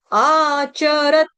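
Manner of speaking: आचरत with a short च and a quick रत. Shown as a demonstration. Teacher showing the short च in आचरत. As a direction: say आचरत, clipping रत fast. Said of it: "फटाफट हमको रत बोलना है".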